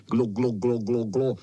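bubbling glo glo underwater; gurgling. A narrator's reading.

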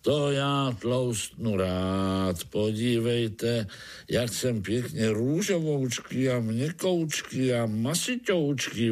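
boastful Chechtoun. Acted.

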